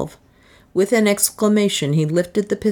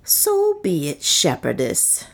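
solemn; slower than usual. A narrator's reading. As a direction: pronounce it with solemn finality. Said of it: "said Soa solemnly".

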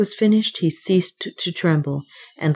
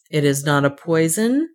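suspicious. Acted. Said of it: "asked Leonard suspiciously".

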